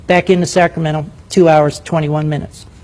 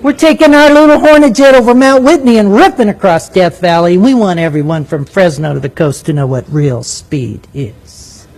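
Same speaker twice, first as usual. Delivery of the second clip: mock cocky Navy pilot. The narrator voicing the Navy pilot's thoughts, in mock swagger. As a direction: brag like the meanest jet in the sky. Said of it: "I get it".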